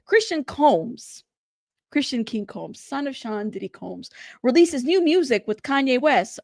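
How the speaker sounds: measured mock news-anchor read. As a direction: lightly put on a newsreader's delivery. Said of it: "let me get my best anchor voice".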